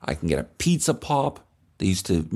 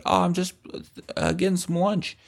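high, meek little voice; shy kid mumbling an answer, pitched up; high bashful voice; timid kid; 8 semitones higher than usual. Retold or imitated. Timid younger self answering.

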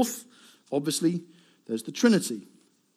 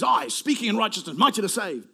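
higher, proclaimed divine declaration; declaimed; 5 semitones higher, 4 dB louder than usual. Acted. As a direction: announce it like a conquering king. Declaims God's words from Isaiah.

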